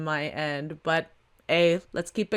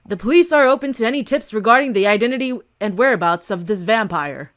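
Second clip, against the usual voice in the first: a hint of a firm officer at a podium; police captain; 6 dB louder than usual. Captain answering reporters, lightly voiced official tone. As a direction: address the press with authority.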